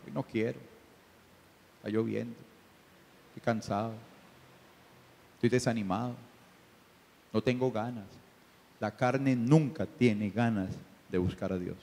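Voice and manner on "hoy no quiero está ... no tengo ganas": softer, lightly voiced reluctant excuses; lazy flesh. The flesh refusing to pray, a hint of soft lazy whining. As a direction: mumble the excuses like someone who won't get up. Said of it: "¿Y qué dice su carne?".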